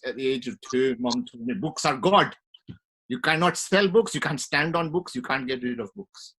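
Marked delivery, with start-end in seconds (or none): 1.5-6.3 imitated mum. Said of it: "She doesn't talk like that. I don't know why I said it like that".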